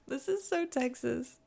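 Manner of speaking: slow, still-laughing remark; amused. Real, not acted. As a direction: savor it with a grin.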